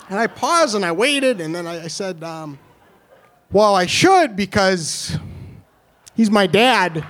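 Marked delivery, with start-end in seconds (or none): 3.5-7.0 slow, deadpan reveal. Retold or imitated. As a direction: pause before the punchline.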